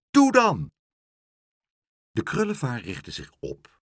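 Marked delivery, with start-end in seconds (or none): 0.1-0.7 higher, louder cheer; urging call. Acted. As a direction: egg the bird on loudly. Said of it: "riep Pluk".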